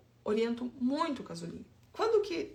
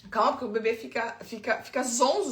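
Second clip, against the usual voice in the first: sceptical retort; 5 dB louder than usual. Real, not acted. Scoffing at the parent's excuse.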